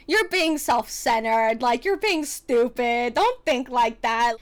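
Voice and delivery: scolding herself. Retold or imitated. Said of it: "and I was like".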